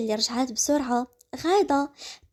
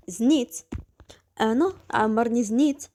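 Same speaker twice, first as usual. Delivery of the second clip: incredulous whisper. Acted.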